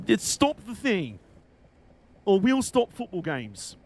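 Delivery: slow, drawn-out mock threat; mock protest demand. Streamer imitating protesters threatening disruption, mock insistence. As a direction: lightly mimic a protester laying down terms.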